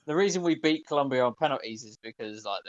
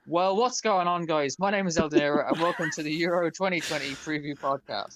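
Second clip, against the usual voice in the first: energetic intro; 3 semitones higher than usual. Acted. Host opens podcast energetically.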